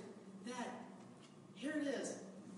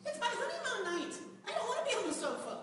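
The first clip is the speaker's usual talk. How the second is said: comic protest; 10 semitones higher than usual. Real, not acted.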